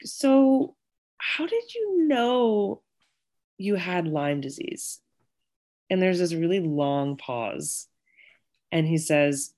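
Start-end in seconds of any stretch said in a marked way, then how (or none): 0.0-5.0 coy loaded question. Retold or imitated. Retold loaded question to boyfriend.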